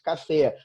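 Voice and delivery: café with the force on final FÉ; café stressed on its final syllable, fé; stress on last syllable. Shown as a demonstration. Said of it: "A força é na última sílaba".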